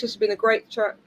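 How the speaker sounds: speaking with new retainers; slightly lisped retainer speech; wearing a retainer. Real, not acted. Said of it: "New retainers, they're driving me mad".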